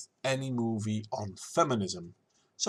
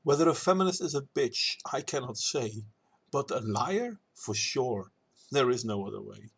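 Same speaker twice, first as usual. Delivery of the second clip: measured rhymed rebuttal in verse; verse recital. Acted. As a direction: recite it as a spoken poem reply.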